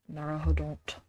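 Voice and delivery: Japanese word said with a bad American accent, "Naruhodon't" with flat American vowels; terrible American accent. Shown as a demonstration. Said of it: "that was a terrible American accent for the Japanese".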